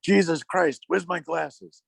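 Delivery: high, frantic mock fretting over a lost phone; a hammed-up panic over a missing phone; exasperated outburst. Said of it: "he goes".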